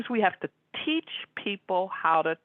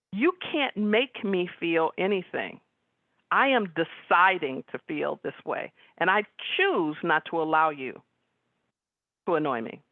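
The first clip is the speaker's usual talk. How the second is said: firm, deliberate. Retold or imitated. Sister setting a boundary with her brother, firm and deliberate.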